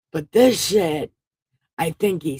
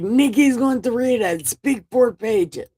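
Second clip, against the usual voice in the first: bossy God voice; 5 semitones higher than usual. Retold or imitated. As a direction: play God as a pushy boss handing out homework. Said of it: "He's like".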